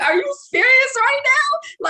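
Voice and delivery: pissed off, hitting serious hard; outraged disbelief. Retold or imitated. To the lying classmate, a loud, high outraged demand. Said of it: "I'm pissed".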